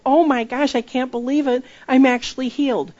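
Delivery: jumping-for-joy healed stranger; overjoyed healed person. Retold or imitated. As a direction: gush like someone just healed. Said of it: "They start to jump up and down and go".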